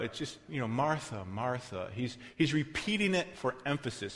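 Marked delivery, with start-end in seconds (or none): 0.7-1.9 soft, gentle calling of her name; quiet tender repetition; tender, endearing. Shown as a demonstration. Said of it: "I don't know if I can act it out".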